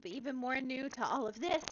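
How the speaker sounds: put-on high, small, eager little-girl voice; little shy girl. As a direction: pipe up, tiny and nervous, new to everything. Small shy character meets shopkeeper.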